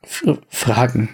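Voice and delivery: stammelnd, etwas höher; er windet sich stotternd heraus; verängstigter Wirt. Acted. Wirt wird bedroht. (stotternder Wirt, etwas höher)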